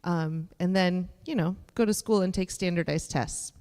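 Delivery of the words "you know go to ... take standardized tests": dry, understated sarcasm; deadpan irony, lightly done; sarcastic. Real, not acted. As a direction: say it as if it were no big deal, not meaning it. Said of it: "that was sarcasm, by the way".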